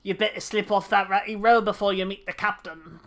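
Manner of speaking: lightly voiced salty old sea dog; gruff pirate sailor. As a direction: read it like a dockside pirate. Pirate NPC dialogue.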